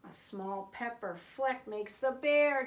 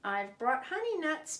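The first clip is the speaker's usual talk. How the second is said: with a grin; 3 semitones higher, 5 dB louder than usual. Acted. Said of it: "badger says with a grin".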